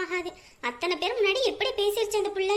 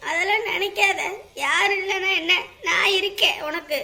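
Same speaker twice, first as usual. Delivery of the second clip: firm reassurance; 6 dB louder than usual. Acted. Aunt firmly reassures crying boy.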